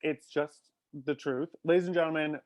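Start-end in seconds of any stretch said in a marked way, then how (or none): 1.6-2.4 drawn-out showman announcement, stretching the name slowly; announcer voice. Pretend. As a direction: announce the name like a game show host. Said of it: "announcer intro repeated".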